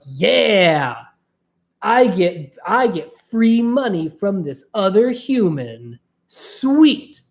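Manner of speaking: mock-smug, taking free money; smug asshole. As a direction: play the ungrateful jerk, lightly. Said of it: "let's say I was an asshole about it".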